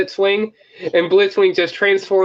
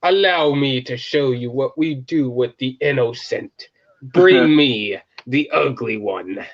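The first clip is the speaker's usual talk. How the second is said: measured, slowing villain's pronouncement; a hint of a menacing judge, drawing out the last order; lightly voiced judge; 3 semitones lower than usual. Fan playing a judge sentencing prisoners, mildly ominous.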